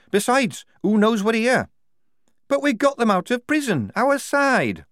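loud, indignant prisoner; high, heated character voice. A narrator's reading. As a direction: argue back high and loud.

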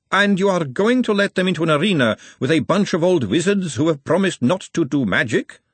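high, emphatic disbelief; incredulous ladyship. A narrator's reading. Margolotta challenging Vetinari about wizards in the arena, incredulous. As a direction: question it in high, rising astonishment.

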